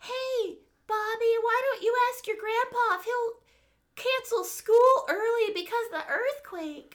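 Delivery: very high put-on cartoon character voice. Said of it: "'Cause they're like".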